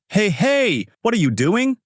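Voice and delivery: grab for the shreds; alarmed shout. Acted. Shopping center man, seeing his envelope ripped, alarmed shout.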